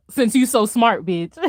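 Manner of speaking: lightly voiced menacing Thanos; deadpan threat, barely put on; mock Thanos threat. Streamer voicing Thanos threatening her, a light mock menace.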